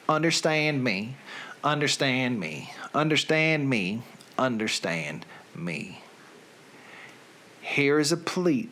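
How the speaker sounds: a lightly put-on Southern accent. Reading song lyrics to his listeners, in a light Southern accent. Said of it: "with a Southern accent".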